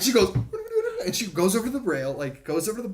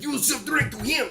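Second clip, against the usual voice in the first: mock yell; 8 semitones higher, 3 dB louder than usual. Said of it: "he's, like, yelling at her".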